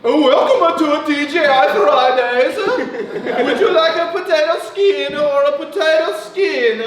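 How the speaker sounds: put-on lightly done surfer-plus-Italian server accent; fake surfer-Italian accent. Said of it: "put on the fake accent".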